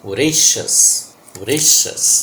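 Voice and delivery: voracious as vuh-RAY-shus, weak first vowel; correct pronunciation. Shown as a demonstration. Teacher repeats the model for students, voracious as vuh-RAY-shus. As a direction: say voracious with a barely voiced first vowel and ei diphthong. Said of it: "See the pronunciation".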